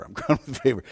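chuckling through the words; amused, laughing repeat. Real, not acted. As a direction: let a laugh break in as you say it.

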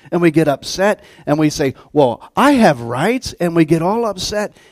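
loud, high fired-up preaching; rousing pulpit preaching. Acted. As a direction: preach it out with fire. Preaching at full force.

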